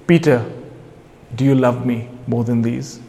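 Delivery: soft, low, tender question; gentle questioning. Retold or imitated. Jesus to Peter at the breakfast table, gentle questioning. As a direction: ask it softly, as in a retold scene.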